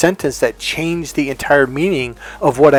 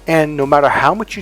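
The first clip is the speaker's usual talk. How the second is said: ordinary talk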